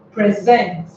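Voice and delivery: "present" stressed on the second syllable, "sent"; stress on last syllable. Shown as a demonstration. Teacher giving an example verb, last-syllable stress on "present". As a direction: lean on the end of "present". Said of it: "you stress the last syllable".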